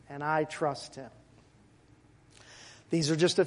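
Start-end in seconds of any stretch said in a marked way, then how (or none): 0.1-1.1 "And I trust Him" repeated much softer; quiet echo. Shown as a demonstration. Preacher quietly echoing his trust before the church. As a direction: echo "And I trust Him" softly, almost to yourself.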